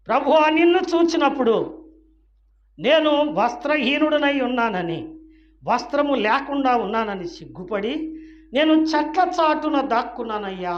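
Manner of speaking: pleading Adam. Acted. Adam answers God, ashamed.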